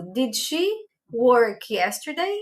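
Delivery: slow English question, rising on yesterday; slow model question. Shown as a demonstration. Teacher models the she-question for students, slow and clear. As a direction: spell out each word for learners. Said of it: "Eu digo".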